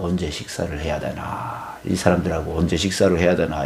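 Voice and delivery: lightly acted private worrying; pondering to oneself. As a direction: think aloud, low, as if puzzling it over. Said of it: "계속 생각하면서; 이렇게 고민을 하고".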